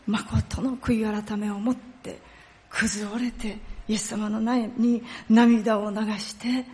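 normal talking voice

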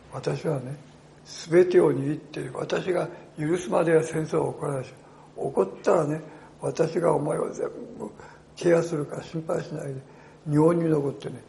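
loud, ringing proclamation of God's words; God's commanding voice. Acted. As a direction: proclaim it like a preacher at full force. Voices God's command, preaching force.

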